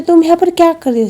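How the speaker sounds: high, loud, quick retold question; startled demand. Min finding Sheela in her room, startled demand. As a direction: blurt it out in mock alarm.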